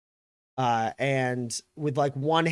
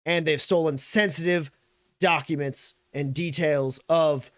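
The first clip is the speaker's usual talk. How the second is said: raised official military declaration; McGarrett; 4 semitones higher, 4 dB louder than usual. Acted. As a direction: state the charges with authority. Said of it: "uh, he goes".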